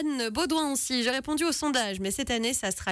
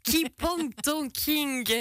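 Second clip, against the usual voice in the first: higher, slow Keep on Talking broken by a laugh; laughing title; 4 semitones higher, much slower than usual. Acted. Host laughing over her own repeat of the title. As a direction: giggle through Keep on Talking.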